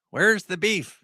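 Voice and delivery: high, loud ad slogan; ad catchphrase. Retold or imitated. Recalling a great campaign for viewers, high loud catchphrase.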